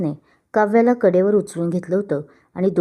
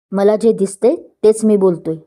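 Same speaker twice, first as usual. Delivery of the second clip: angry; 4 dB louder than usual. Acted. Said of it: "वीर चिडून तिथून निघून गेला".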